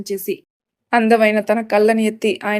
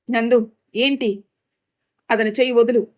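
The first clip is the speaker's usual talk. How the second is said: angry shout. Acted. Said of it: "అని గట్టిగా అరిచింది".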